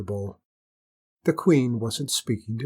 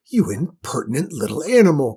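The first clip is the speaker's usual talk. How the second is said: louder indignant royal cry; outraged cry; 2 semitones higher, 6 dB louder than usual. Acted. Queen crying out at the impertinent hare, outraged. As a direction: scold the cheeky animal. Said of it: "cried the queen".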